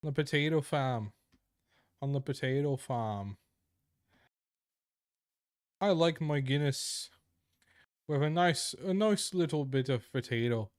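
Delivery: hammed-up Irish accent. Shown as a demonstration. Streamer shows off voice-acting skills, mock Irish accent. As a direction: show off a stereotyped Irish accent for laughs. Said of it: "I could do a decent Irish accent".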